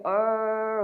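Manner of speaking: "R" held long as if gargling; gargle-like R. Shown as a demonstration. Teacher likening it to gargling, long throaty "R". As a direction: let "R" roll back in the throat like a gargle. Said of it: "가글 하실 때 이렇게".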